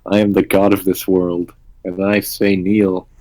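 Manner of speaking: slow, imperious deity demanding worship; lightly voiced god, slow commanding words. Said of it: "role-playing so well".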